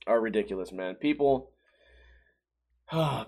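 normal talking voice

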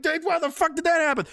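hammed-up exasperated question; mock exasperation. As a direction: act out an indignant demand for answers. Retells complaint after hitting his ankle.

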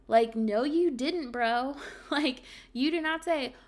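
loud, high, exasperated no; indignant outburst. Real, not acted. Loud indignant retort to boyfriend's flimsy excuse. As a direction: call out his lie, fed up.

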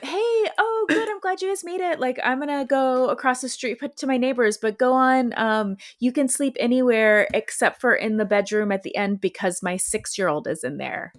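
very high, airy bartender voice; cheerful hostess dropping a bombshell casually; mock breezy bartender. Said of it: "she is like".

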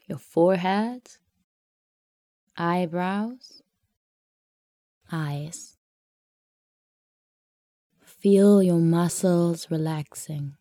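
slow breathy whisper, barely voiced. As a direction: whisper it to let them relax. Meditation, relaxing the body.

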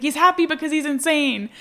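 a hint of a gleeful madman; retelling the quote to a friend, high and pleased; imitating Daryl. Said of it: "He's like".

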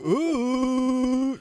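high, drawn-out "ooh"; playful hoot. Pretend. Playing along with the King Kong bit, high hoot.

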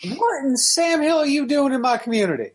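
put-on cranky old-timer yelling at a stranger; old prospector. Noga voiced as old man.

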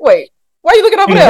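high, fast, laughing alarm; laughing, high-pitched mock panic; Rhaenyra's alarm. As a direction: squeal it half laughing as the startled daughter. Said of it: "Rhaenyra look over there like".

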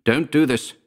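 urgent, frightened appeal; pleading. A narrator's reading. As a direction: plead as if for your life. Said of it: "as he pleaded for his life".

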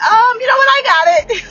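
high, loud imitation of Iris; acted-out retort. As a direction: pitch it way up and push the volume. Acting out Iris's reply.

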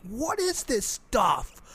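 a slow, lightly voiced puzzled Jack; wondering Jack. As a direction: drawl it out like an amazed Jack. Voicing Jack's wonder.

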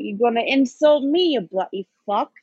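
lightly voiced sweary bloke answering back; Caps impression. S1 trading insults with S0, mock Caps. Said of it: "our best impersonation of you".

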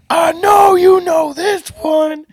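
high, slow shouted hype with laughter. Retold or imitated. DJ on the God mic hyping the crowd, laughing shout. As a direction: hype the room like a club DJ, pitch way up. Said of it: "I was going".

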